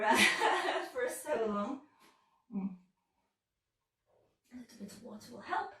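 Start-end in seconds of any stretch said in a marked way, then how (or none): 0.2-0.9 short breathy chuckle; breathy laugh. Real, not acted. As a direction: laugh it off under your breath. Laughs at bad timing.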